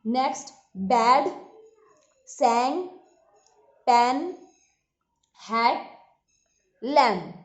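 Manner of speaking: बैड सैंग पैन हैट लैम्प with an open a; repeat-after-me demo. Shown as a demonstration. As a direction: model the short open a. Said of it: "मेरे साथ बोलेंगे".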